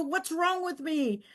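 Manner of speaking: quietly turning the blame inward; self-doubting. Retold or imitated.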